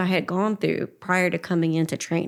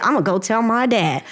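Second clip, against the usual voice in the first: put-on like a little kid; 4 semitones higher, 4 dB louder, faster than usual. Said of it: "like a little kid".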